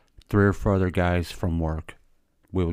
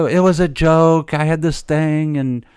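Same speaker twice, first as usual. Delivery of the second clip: wife confessing; 6 semitones higher, 6 dB louder than usual. Retold or imitated. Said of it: "she goes".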